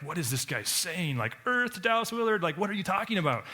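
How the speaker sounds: high, incredulous confusion; baffled reader. Retold or imitated. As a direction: squeak out disbelief at the book.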